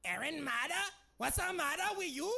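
high, loud taunting singsong; mocking classmate. Classmate mocking the new kid's name, high and loud. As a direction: tease the new kid, shrill laugh. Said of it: "Janisa Sanchez going".

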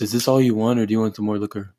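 lightly put-on oddball clerk; a hint of Napoleon Dynamite's uncle; made-up clerk voice. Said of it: "You sound like Napoleon Dynamite's uncle".

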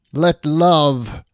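loud, proclaimed blessing; bardic inspiration. Acted. Bard casts inspiration on Triss, proclaimed blessing. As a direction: declaim it as a short magical encouragement.

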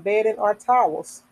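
measured read-aloud of a health notice; reading information aloud. Real, not acted. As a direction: read it out sentence by sentence, with pauses between.

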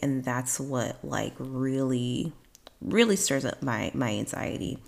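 speaking with a dry mouth; words sticky from a dry mouth. Real, not acted. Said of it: "my mouth is getting dry".

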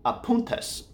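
playful high repeat of "Apuntes"; high rising repeat. Shown as a demonstration. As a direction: lift "Apuntes" up in a soft question-like rise. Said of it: "meaning notes".

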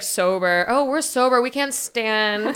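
slow, soft mock sober slur; a soft, slow parody of tipsy friends swearing they're sober; mocking drunk friends. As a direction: act tipsy while insisting you're sober. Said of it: "you guys are just trying to be like".

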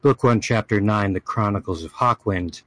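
dramatic fantasy chronicle reading; story narration. Acted. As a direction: read it like an epic saga. Reads a fantasy chronicle aloud.

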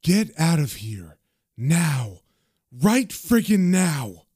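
slow, firm order with restrained anger; spaced out, each phrase a final warning; angry and determined. Acted. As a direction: draw out the demand, dead serious. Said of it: "She gets angry and determined".

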